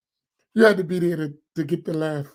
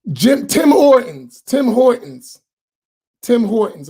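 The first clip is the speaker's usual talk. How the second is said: sudden remembering; 3 semitones higher, 4 dB louder, slower than usual. Real, not acted. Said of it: "What's the name of that?".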